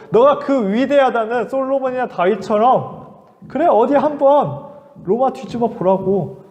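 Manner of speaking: a hint of a mocking soldier; scornful taunt. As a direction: dare him with contempt. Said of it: "그렇게 비웃기 시작했어요".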